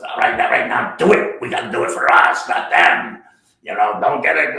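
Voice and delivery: loud pep-talk voice, urgent; mock rallying shout. Jack rallying actors in dressing room, loud urgent pep talk. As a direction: fire up the cast like a coach. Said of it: "he goes".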